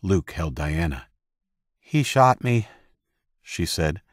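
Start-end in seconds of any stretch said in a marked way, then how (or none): 1.8-2.7 calm. Acted. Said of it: "in a calm voice".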